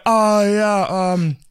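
mock-flustered, high and halting apology; awkward apology. Man caught sneaking a photo on the subway, awkwardly apologizing. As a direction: act out fumbling for words, caught out. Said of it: "it was a terrible, awkward situation".

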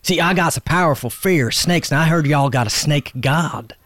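loud, stammering, anxious plea; nervous stammer. Acted. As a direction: beg for help nervously. Nervous plea to medicine man.

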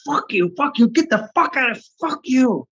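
high-pitched frantic mock cursing; acted-out cursing. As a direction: spit out curses like someone possessed, without shouting. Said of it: "I started cursing".

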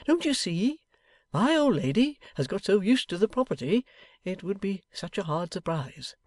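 high, swooping, plaintive voice; tender-hearted old man imploring; feeling plea. A narrator's reading. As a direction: plead earnestly, softening at the end. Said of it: "Mister Boffin feelingly represented to him".

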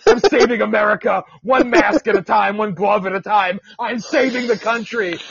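hint of a smug mask wearer, half shouted; mocking mask wearer. Podcaster mocking drivers in masks, lightly shouted and smug. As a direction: puff up like a self-appointed hero.

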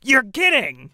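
high delighted gasp; shocked and thrilled; surprised. Acted. NPCs offered fifty thousand.

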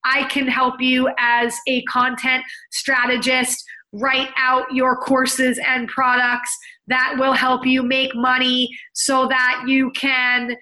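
stiff, slow robotic corporate tone. Retold or imitated. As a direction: read it like a stiff manual. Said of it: "what is robot speak".

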